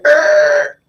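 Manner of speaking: very high, loud screeching noise; imitated screech. Retelling father stopping the car, imitated screech. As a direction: squeal it out like tyres.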